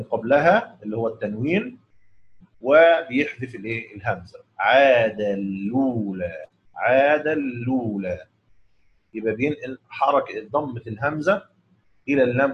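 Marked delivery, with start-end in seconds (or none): 4.6-8.3 slow عاد اللولى without any hamza, "aadallula"; Abu Jaafar reading. Shown as a demonstration. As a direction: merge the tanween into the lam and drop the hamza. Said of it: "بيقرأ بنقل حركة".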